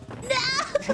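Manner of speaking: high cry of dismay; dismayed shout. Real, not acted. Reacting to bad map.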